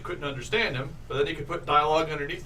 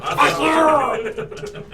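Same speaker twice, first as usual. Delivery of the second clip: caliber voice; 11 semitones higher, 6 dB louder than usual. Shown as a demonstration. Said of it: "my caliber voice".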